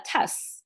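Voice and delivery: "about us" broken into a separate "tuss"; misplaced stress on T. Retold or imitated. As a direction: hit the T, making "us" into "tuss". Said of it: "把重音放在了T上面".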